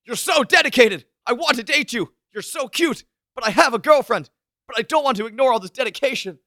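high-pitched, hammed-up impassioned yelling; mock screaming. Podcaster acting out the boy's reply to her confession, mock screaming. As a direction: scream it as an overwrought anime boy, playfully. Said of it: "he starts screaming".

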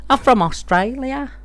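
put-on Australian accent. Boyfriend claiming to be Australian, put-on Australian accent. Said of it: "I was from Aus".

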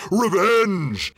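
loud scornful snort of a word; snorting dragon. A narrator's reading. Dragon scoffing at the hobbit, loud snort. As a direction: spit the word out in contempt. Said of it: "he snorted".

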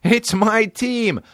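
mock proud squeal. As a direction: stretch it out in a squeaky joke voice. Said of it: "And I'd be like".

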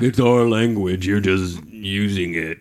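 lightly put-on English accent, slow; a faint English accent, drawn out. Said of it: "That was my English accent".

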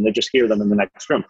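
ordinary talk, nothing marked

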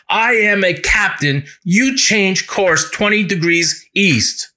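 the captain insists on being obeyed; forceful order. Retold or imitated. Captain to the other ship, a slow insistent command. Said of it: "asked the signalman to shout out".

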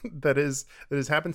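ordinary talk, nothing marked

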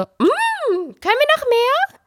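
put-on very high small child voice. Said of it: "geschmeckt und dann so".

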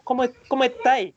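high, quick "cómo estáis" with the s of "estáis" swallowed; dropped S. Retold or imitated. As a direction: imitate Chileans, letting the s in "estáis" vanish. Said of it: "como no se pronuncia ese".

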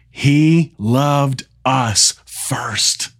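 slow, weighty reading of each phrase; scripture reading. Acted. Pastor reading the Message translation to listeners, slow and deliberate. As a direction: savour every short line of the verse.

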